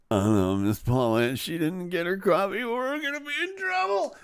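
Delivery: rising to a high, mock-frightened child squeak; mock scared kids. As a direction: imitate kids fretting about the teacher. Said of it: "cowering in fear behind their desks".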